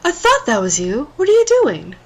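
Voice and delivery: smoker voice. Acted. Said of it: "now I gotta do the smoker voice".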